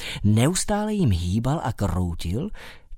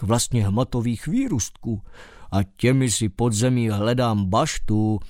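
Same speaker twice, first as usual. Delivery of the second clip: mole's voice. Acted. Mole character voice.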